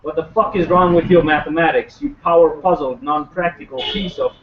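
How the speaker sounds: rhythmic recital built on stressed rhymes; spoken-word poem. Acted. Poet presenting a satirical news report, spoken-word delivery. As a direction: declaim it line by line, driving the rhymes.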